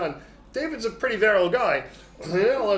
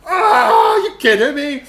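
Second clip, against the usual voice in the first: loud, higher, incredulous shout; outraged shout; 11 semitones higher, 11 dB louder, slower than usual. Retold or imitated. Uriah refusing David's order, outraged shout. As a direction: blurt it out in disbelief.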